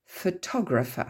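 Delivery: "Photographer" stressed on TOG; stress on second syllable. Shown as a demonstration. Teacher showing the moving accent, "Photographer" stressed on second syllable. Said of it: "l'accent tonique bouge".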